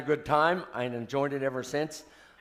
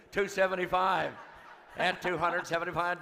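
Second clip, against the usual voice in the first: rapid auctioneer chant; 3 semitones higher than usual. Real, not acted. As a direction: rattle off the bids like an auctioneer.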